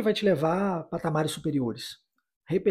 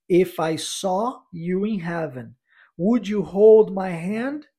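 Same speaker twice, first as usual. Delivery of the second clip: slow model sentence; much slower than usual. Shown as a demonstration. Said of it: "model sentence".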